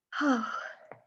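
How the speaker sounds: a long audible yawn; open-mouthed yawn. Real, not acted. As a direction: let a big yawn out. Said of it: "I am so sorry for all the yawning".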